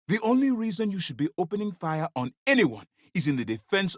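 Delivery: high, insistent reprimand; stern reprimand. Acted. Commander reprimanding someone for opening fire, high and insistent.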